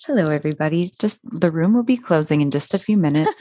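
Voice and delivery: polite cabin announcement voice; radio voice, like a PA announcement; flight attendant voice. Shown as a demonstration. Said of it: "you sounded like a flight attendant just now".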